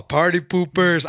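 slow, drawn-out teasing call; mock taunt. Teen recording police who broke up party, drawn-out mock taunt. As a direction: stretch it out like a light taunt.

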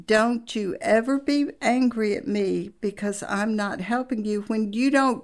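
lightly imitated calm husband. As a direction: retell the husband's even, patient reply. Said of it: "And very calmly he said".

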